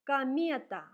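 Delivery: "комета" with unstressed O said as A, loud and clear; teacher reading a Russian word loudly. Shown as a demonstration. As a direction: read "комета" as "камета", loud. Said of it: "O is read like A because it is not stressed".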